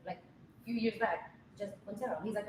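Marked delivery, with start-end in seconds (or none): 1.6-2.2 put-on Jessica Quintero in an everyday American accent; anglicised name. Retelling how she used to introduce herself, anglicised American accent. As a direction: say the name in American English, unrolled R. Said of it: "that's not how you say it".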